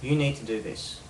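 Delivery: "You need to do this" falling to the end; downward statement tone. Shown as a demonstration. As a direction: state it as a command, dropping on "this". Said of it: "it goes down".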